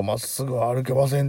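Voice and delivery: put-on drunk complaint. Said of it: "しきりにずっとなんか".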